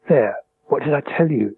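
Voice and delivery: lightly voiced mother, exclaiming; a mother's knowing told-you-so, lightly read; mock exclamation. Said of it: "exclaimed Mother".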